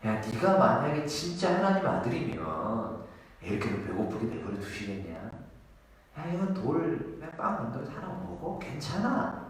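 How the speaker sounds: quiet, insinuating serpent voice; sly tempter. Acted. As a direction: whisper doubt into her ear. 사탄이 예수를 유혹. (뱀처럼 나지막이 꼬드기는 목소리)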